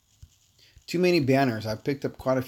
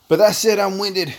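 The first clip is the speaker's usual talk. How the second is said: loud exclamation; 8 semitones higher, 9 dB louder than usual. Real, not acted. Wrapping up stream, bursts out.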